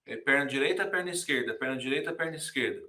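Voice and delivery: left right chanted in march time; marching count. Shown as a demonstration. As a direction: call out the steps like a drill. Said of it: "pro soldado marchar".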